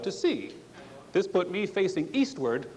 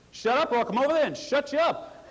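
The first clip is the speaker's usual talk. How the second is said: angry threat; 7 semitones higher than usual. Retold or imitated. Angry distant fisherman threatens.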